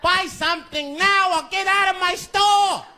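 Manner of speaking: high-pitched furious store owner; angry shopkeeper. Retold or imitated. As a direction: shout at a suspected thief. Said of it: "Mister Fong said".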